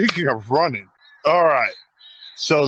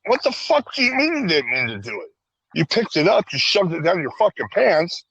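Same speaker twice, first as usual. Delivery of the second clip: retold exasperated scolding; 4 semitones higher than usual.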